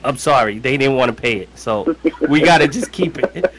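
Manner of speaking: lightly acted apology to wife; pretend apology to wife. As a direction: fake sorry to the babe. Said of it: "I gotta act like it".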